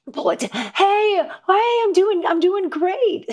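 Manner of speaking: very high, overdone "everything's fine" voice; mock tearful pretence of being great; fake cheerful while sobbing. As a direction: squeak out a falsely cheery phone answer. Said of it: "in bed sobbing, like".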